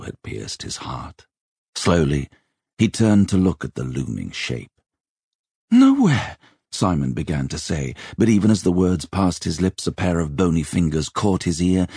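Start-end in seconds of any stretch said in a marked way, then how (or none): 5.7-6.4 put-on high, loud, startled boy; yelped one-word excuse. A narrator's reading. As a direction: blurt it out, caught off guard.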